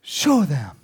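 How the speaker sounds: high, loud call to God; bold challenge. Retold or imitated. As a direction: Elijah daring God before the crowd. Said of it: "He says".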